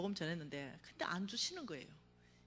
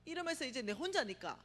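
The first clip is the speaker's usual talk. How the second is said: high, loud, slow sobbing outcry; lying on the beach crying out to God; wailing cry; 8 semitones higher, 5 dB louder than usual. Retold or imitated. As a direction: howl it at heaven, heartbroken. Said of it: "이러면서 울고불고 난리가 난 거예요".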